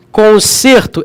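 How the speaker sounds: CONSERTO with a closed stressed E; E fechado. Shown as a demonstration. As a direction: say conserto as if "consêrto". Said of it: "é como se tivesse o chapéu". (conserto com E fechado)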